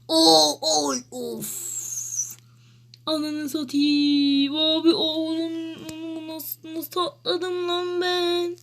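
wheezy and out of breath, slow. Real, not acted. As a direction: gasp the words out, wheezy and slow. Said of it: "Nefesim kesildi".

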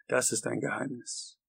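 mildly mocking reply; a touch of teasing secrecy; lightly taunting, understated. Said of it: "sagte Hal spöttisch".

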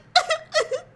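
high-pitched imitated sobs; badly faked crying, half laughing; mock sobbing. Woman imitating her date crying in the car, mock sobs. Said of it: "he starts crying in the car".

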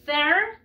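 "Fair" with the tongue out on the first sound. Shown as a demonstration. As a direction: push the tongue out to start "Fair", drawing it out. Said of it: "con la lengua".

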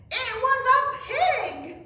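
loud, high, drawn-out exclamation; excited reveal. A narrator's reading. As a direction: announce the big surprise, slowly and loudly. Story reveal exclaimed loudly.

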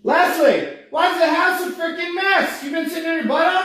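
loud, high, fast put-on nagging voice; bossy scolding. Husband testing wife with loud mock scolding about the messy house. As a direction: scold her like a nagging spouse. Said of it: "acting bossy husband skit".

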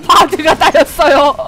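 바드가 따였어요 said through a laugh, falling. Real, not acted. Streamer laughing as the ally Bard gets first blood taken, amused. Reacting to her Bard dying.

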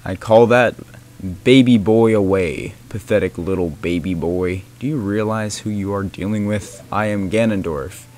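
deep villain voice; megalomaniac rant. Acted. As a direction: boom it out like an evil overlord. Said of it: "make my voice deeper".

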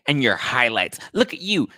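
put-on scornful dig; going off, catty. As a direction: imitate a drunk picking someone apart. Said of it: "he's, like, going off me".

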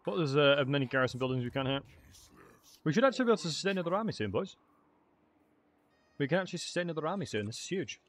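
talking with mouth full; eating while talking; wolfing down food. Real, not acted. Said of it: "sorry for eating, folks. I'm starving".

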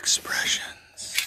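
slow, soft perfume ad whisper; sultry perfume ad. Pretend. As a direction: draw it out like a luxury fragrance tagline. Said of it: "You have to say it like a perfume commercial".

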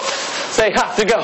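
cheerleader call, drawn out. Acted. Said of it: "Ohio State cheerleader uniform".

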